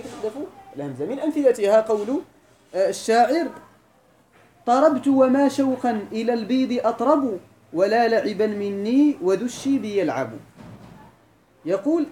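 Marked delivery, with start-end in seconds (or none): 4.7-10.3 slow, measured verse chanting; drawn-out classical verse; poem recital. Shown as a demonstration.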